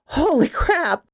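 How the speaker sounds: high-pitched, drawn-out cry of shock; narrated scream. A narrator's reading. Woman spotting the gnome below her window, restrained scream. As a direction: cry out high and slow, without full volume. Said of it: "I screamed".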